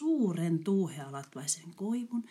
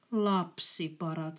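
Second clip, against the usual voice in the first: säälivä; slower than usual. Acted. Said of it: "sanoivat he surkutellen".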